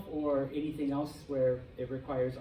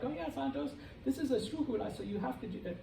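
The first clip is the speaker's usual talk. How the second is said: much higher, softer mimicking voice; mock know-it-all; 10 semitones higher, 5 dB quieter, faster than usual. Teachers and fellow students quoting complicated rules, mimicked in a high voice. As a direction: put on a high mocking student voice.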